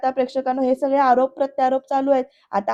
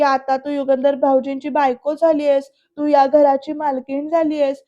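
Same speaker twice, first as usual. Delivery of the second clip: mildly melodramatic tone; lightly hammed-up protest; theatrical pleading; 2 semitones higher than usual. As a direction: plead a touch theatrically, as if wronged. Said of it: "Dhanashree नाटकी सुरात बोलते".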